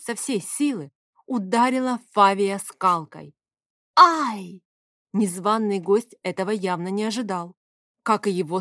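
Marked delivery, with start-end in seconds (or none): 4.0-4.6 sharp loud yelp; a sudden cry as the rolling pin lands; yelp of pain. Acted. Hit with a rolling pin, he yelps loudly in pain.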